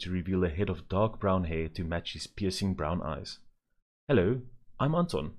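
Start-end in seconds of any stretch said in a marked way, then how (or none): 4.1-5.3 put-on polite child. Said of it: "said the boy politely".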